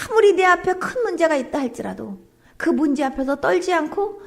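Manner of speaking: 간절히 인도하는 기도; 회중을 대신해 하나님께 간구하듯; leading prayer. Acted. Preacher leads prayer. (대표 기도하는 목사의 간절한 목소리)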